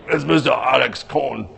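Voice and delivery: light impression of how "Mister Alex Kahn" really says it; imitating Alex Kahn. Host showing how the guest really talks, a bad light impression. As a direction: do the guest's own voice, "Mister" leading. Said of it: "He doesn't talk like that. He's more like".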